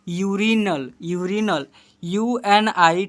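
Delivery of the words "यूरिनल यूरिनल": यूरिनल opening on a clear "yoo"; u read as yu. Shown as a demonstration. Teacher shows pupils how it is read, yu sound. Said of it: "इसे पढ़ेंगे".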